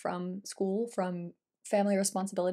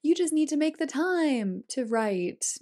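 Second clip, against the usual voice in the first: slow, higher-pitched mock holler; 6 semitones higher, 4 dB louder, slower than usual. People hollering at a tired writer, mock holler. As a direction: imitate people hollering advice, drawn out. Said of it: "all these people were hollering at her like".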